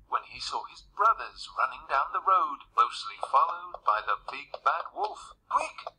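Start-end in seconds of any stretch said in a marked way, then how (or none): 5.5-5.9 high, urgent piglet squeal; crying-out little pig. A narrator's reading. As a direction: cry out high in alarm. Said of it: "cried the third little pig".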